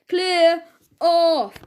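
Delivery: angry shout. A narrator's reading. Policeman shouting at the dog dodging his feet, furious. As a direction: roar him off the lane.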